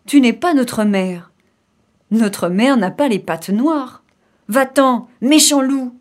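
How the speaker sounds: loud, rising to a shout at the end; defiant kids' cry. Acted. Kids chase off the black-pawed wolf, defiant cry. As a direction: cry out the refusal as little goats. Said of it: "se mirent à crier".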